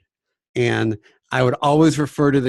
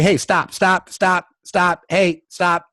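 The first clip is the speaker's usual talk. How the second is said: frantic stop; 5 semitones higher, slower than usual. Shown as a demonstration. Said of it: "It can't be".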